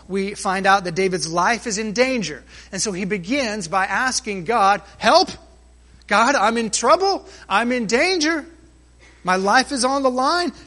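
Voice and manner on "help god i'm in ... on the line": pleading cry. Acted. David crying out to God.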